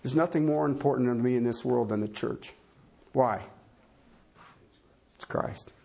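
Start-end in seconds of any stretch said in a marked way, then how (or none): 5.2-5.7 barely voiced whisper. Real, not acted. Preacher hushes to the congregation, whispering. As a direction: breathe the words as a secret.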